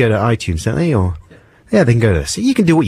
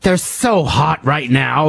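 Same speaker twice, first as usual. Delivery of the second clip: drawled catchphrase; 5 semitones higher, slower than usual. Retold or imitated. Catchphrase quote.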